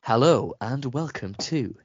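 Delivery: a hint of a formal TV host; telephone voice. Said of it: "I can put a telephone voice on".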